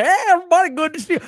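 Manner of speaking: high, fast hacky stand-up patter; mock a stand-up working the crowd; imitating a cheesy club comic's opener. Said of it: "So he's doing the".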